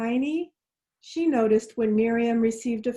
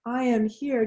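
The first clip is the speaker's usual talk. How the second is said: slow unison affirmation. Shown as a demonstration. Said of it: "Can you all say that with me?".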